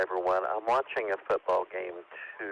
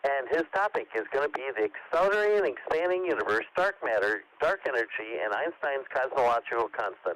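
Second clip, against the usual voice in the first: one unbroken breath to the end; all in one breath; 3 semitones higher than usual. Real, not acted. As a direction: run the long list through without a breath. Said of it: "That was all in one breath".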